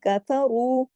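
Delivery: कफरू slowly, with a thick long रू; heavy R. Shown as a demonstration. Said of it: "रू को मोटा पढ़ना है". (कफरू, रू मोटा)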